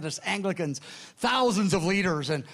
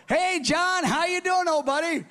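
mock chummy greeting; 11 semitones higher than usual. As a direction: greet the prankster like an old buddy, playing along. Sure it's a prank call.

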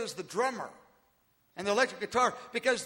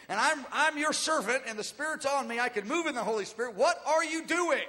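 eager plea; 4 semitones higher, 3 dB louder than usual. Acted. Worshipper in row eight offering himself to the Lord, eagerly. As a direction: build in fervour as an eager servant praying.

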